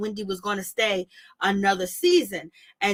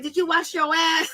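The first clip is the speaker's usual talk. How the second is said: higher, squeaky cartoon voice, laughing through it; giggly mock cartoon voice; cartoon character voice; 4 semitones higher than usual. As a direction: mimic Mia as a cartoon character. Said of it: "she's trying to sound like she's a cartoon character".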